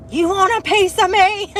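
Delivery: high, loud challenge; retold hammed-up scream at the critter; mock scream. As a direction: yell it like ready to fight. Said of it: "started screaming at him".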